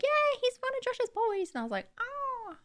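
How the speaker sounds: high slow mock realisation; light mock high voice. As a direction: play the penny dropping, lightly.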